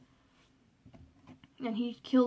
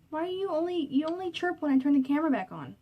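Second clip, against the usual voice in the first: high, mock-scolding voice for the bird; high coaxing voice to a parrot; teasing pet talk; 6 semitones higher, 4 dB louder than usual. Real, not acted. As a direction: chide the bird playfully, pitched up.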